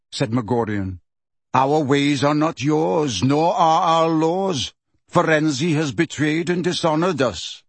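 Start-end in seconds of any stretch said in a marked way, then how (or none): 1.5-7.6 stern centaur. Acted. Centaur leader pronouncing judgment.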